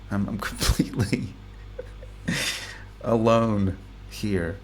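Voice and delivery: laughing under his breath in a whisper; a private, amused whisper to himself. Real, not acted. Alone in his room, laughing at his own excitement, whispering.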